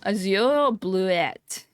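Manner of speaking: Azure Bluette drawn out slowly, AZ-yor blu-ET; French-style pronunciation. Real, not acted. Reading a flower name to a friend, French-style pronunciation. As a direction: stretch Azure Bluette out, Azure with a y-glide. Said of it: "tries to say French".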